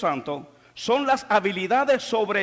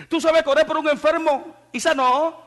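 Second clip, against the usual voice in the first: higher, louder, eager believer; a believer rushing to tell the pastor; eager church member; 8 semitones higher, 6 dB louder than usual. Retold or imitated. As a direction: tell the pastor your news, amazed.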